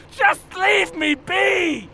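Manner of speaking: shouting, voice cracking toward tears; slow tearful shout. Acted. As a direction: yell it like he's about to break down. Boss shouts, near tears.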